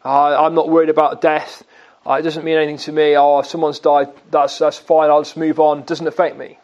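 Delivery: a hint of a breezy unbothered stoic; stiff upper lip stoic. Preacher mimics a stoic shrugging off death, mild. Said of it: "you kind of stiff upper lip".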